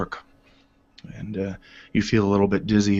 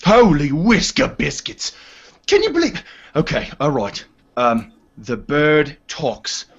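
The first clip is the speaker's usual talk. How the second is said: higher, stunned disbelief; astonished; 5 semitones higher than usual. Acted. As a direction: reel at the talking bird. Orin astonished at talking owl.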